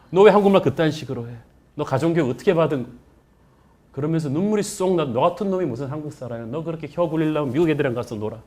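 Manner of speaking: mock-harsh telling off; berating. Seniors berate the student.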